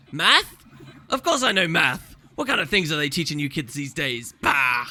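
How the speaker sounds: a hint of a grumpy old councillor; slightly deaf Flunt. Deaf councillor grumbling about kids these days, mildly crotchety. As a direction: mishear it, then grumble dismissively. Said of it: "he's supposed to be kind of deaf".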